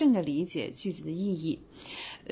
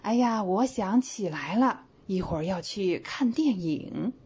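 sudden recall; slower than usual. Shown as a demonstration. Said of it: "小白说".

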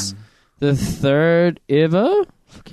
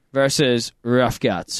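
usual speaking voice

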